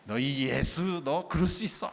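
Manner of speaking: mildly worked-up parent's scolding; 흥분한 부모의 꾸중. Acted. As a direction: scold the child with added emphasis, lightly acted. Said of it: "여기에다 좀 악센트를 넣어야죠". (살짝 흥분해서 따지듯)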